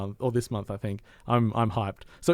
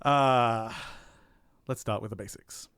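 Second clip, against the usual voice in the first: measured, presenter-style reading; even, deliberate narration with careful phrasing; scripted review read; 4 dB quieter than usual. Real, not acted. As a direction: read a prepared game review over music. Reads prepared review over music.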